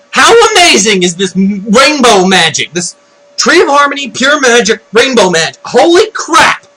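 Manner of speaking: high, excited rave; amazed gushing. Real, not acted. Fan raving about rainbow magic, amazed. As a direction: gush in awe, building to an exclamation.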